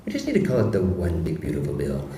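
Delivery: lightly voiced Trump, dismissive and sure; a hint of President Trump brushing off clever titles; Trump impression. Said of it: "a great impression of President Trump".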